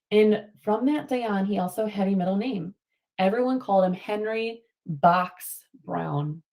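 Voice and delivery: reading a picture book to the class, steady and clear; story read-aloud. Acted. Teacher reading a storybook to her class. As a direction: tell it like a storybook for kids.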